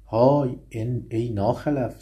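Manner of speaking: the lion yells at the late hare; lion's roar. Acted. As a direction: bellow it like an angry lion. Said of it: "بانگ برزد شیر".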